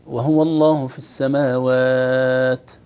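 slow recitation with السماوات held long; measured recitation. Shown as a demonstration. Teacher recites the example verse, slowly. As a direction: draw out the long a before the final t of السماوات. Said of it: "كذلك الهمس قد يزيد".

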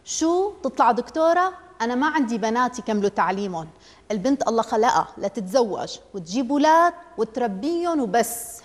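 scoff, then lay down the law; father mocking his wife's hope, sarcastic and angry; angry sarcasm. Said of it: "صاح أبو عامر بسخرية ممزوجة بالغضب".

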